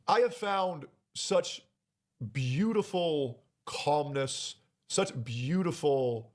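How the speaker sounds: tender and slow. Real, not acted. Tender confession.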